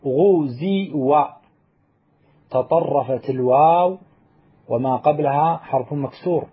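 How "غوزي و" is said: غوزي drawn out as ghu-zi-wa; slow demo. Shown as a demonstration. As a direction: spell out غوزي slowly so each vowel is heard. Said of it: "أصلها غزوة".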